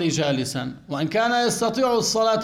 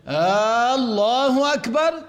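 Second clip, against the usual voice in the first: higher, slow mock imam takbir with a drawn آه; imitating an imam; 5 semitones higher, 4 dB louder, slower than usual. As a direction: chant آه، الله أكبر like a careless imam. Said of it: "لما بيكبر هيك بيقول".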